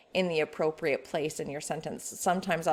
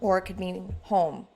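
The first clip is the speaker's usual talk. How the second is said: wistful, for the homeless. Shown as a demonstration. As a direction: say "home" as if you have none. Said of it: "something completely different to those without one".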